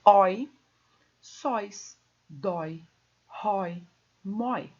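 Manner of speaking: "Oi, sóis, dói, rói, mói" spaced, open O gliding to I; open diphthong. Shown as a demonstration. Teacher demonstrates open diphthongs, open timbre. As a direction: hit "Oi" with an open O, then list the rest. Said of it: "O timbre é aberto".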